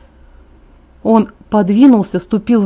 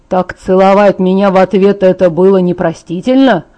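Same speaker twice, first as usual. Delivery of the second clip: louder, bitter and biting; spitting the words out; 4 dB louder than usual. Acted. Hurt Jacob spits bitter words at Bella. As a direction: spit each word at her in disgust. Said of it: "Он словно выплёвывал слова".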